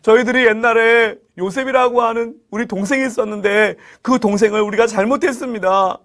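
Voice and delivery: mildly plaintive confession and appeal; storyteller's beseeching voice; acted pleading. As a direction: plead for mercy as the guilty brothers. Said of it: "라고 애원, 애원을 하는".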